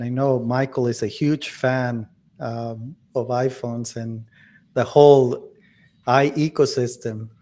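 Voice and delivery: deadpan sarcastic praise. Real, not acted. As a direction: say it with dry irony. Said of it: "I'm being sarcastic".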